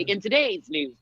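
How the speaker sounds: news anchor voice. Acted. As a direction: parody a TV news opener. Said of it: "they don't talk like that".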